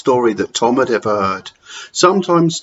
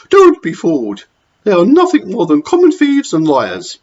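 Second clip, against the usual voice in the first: higher, harsh matron scolding; stern Matron; 9 semitones higher, 7 dB louder than usual. Acted. Matron scolding children to the dinner lady, harsh and higher. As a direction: sneer at the children.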